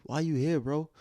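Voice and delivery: high-pitched mock yell; retold yelling. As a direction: imitate an angry man challenging an intruder. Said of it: "He's still yelling".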